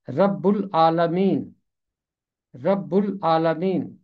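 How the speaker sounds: رب العالمین with doubled b, rabb ul-aalamin; careful pronunciation. Shown as a demonstration. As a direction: sound out رب العالمین. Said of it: "اس کا تلفظ ہے".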